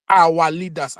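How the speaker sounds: our leaders repeated with weight on our; stress on our leaders. Shown as a demonstration. Pressing why our leaders go abroad, stressing our leaders. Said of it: "another emphasis on our leaders".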